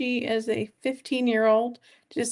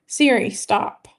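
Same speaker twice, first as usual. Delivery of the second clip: louder, slow, firm order to the watch; firm command to Siri; 2 semitones lower, 7 dB louder, slower than usual. Real, not acted. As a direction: stop the assistant, sharply and slowly. Telling the watch assistant to stop.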